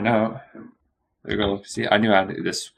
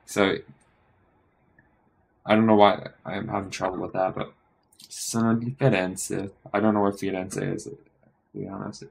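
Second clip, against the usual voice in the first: ordinary talk, nothing marked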